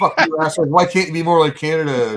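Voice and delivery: mock shout it like an angry flag-waving demonstrator; mock yell. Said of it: "be like".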